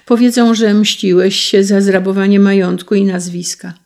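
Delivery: high, loud anguished warning; despairing warning. Acted. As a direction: warn him in despair. Despairing mother warns son.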